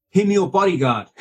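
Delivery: high-pitched imitated Hong Kong Chinese accent. Manager assigning a bodyguard, Hong Kong Chinese accent. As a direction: mimic a Hong Kong manager's broken English. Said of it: "Sorry, I'm doing the accent".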